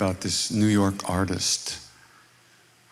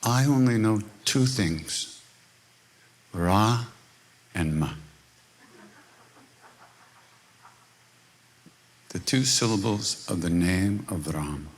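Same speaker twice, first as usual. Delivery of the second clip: calm guru. Retold or imitated. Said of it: "and he says".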